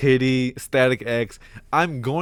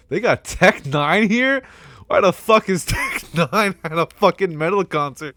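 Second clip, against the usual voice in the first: disbelief; 6 semitones higher than usual. Real, not acted. Reading a surprising festival lineup.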